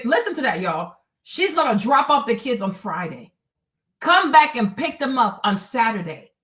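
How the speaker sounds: normal talking voice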